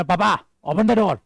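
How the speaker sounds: a bossy order to papa; rude command. Shown as a demonstration. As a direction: demand it without respect. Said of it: "सर खोल देना है पापा ने". (पापा पर हुक्म चलाते हुए)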